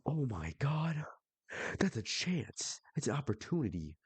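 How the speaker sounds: hammed-up delight at spotting an opening; mock eager schemer. Man thinks he has a chance with the widow, mock eager. Voicing the man's scheming thoughts.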